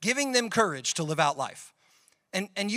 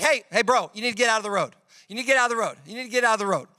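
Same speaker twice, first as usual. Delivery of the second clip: mock urgent call, a bit louder and higher; warning a friend about an oncoming truck, raised voice; 3 semitones higher, 3 dB louder, much faster than usual. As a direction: call your friend off the road as a truck nears. Calling friend out of road.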